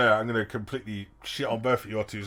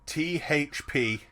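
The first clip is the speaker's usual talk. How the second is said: slow punchline; 3 dB quieter, much slower than usual. Acted.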